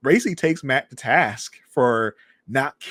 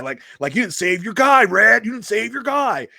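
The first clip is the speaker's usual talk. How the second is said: higher, louder accusing retelling; acted goading; 8 semitones higher, 7 dB louder than usual. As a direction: press the accusation home as Frank. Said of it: "pushing him and pushing him".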